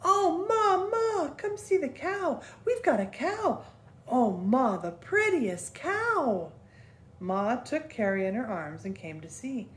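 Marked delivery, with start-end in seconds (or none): 0.0-6.5 put-on high, loud child yelling for her mother; girl running to tell her mother, high and loud; excited yelling. A narrator's reading. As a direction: yell it out, bursting with news.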